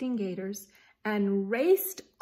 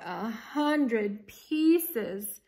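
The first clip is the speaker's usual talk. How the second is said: sighing; much slower than usual. Acted. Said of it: "she sighed".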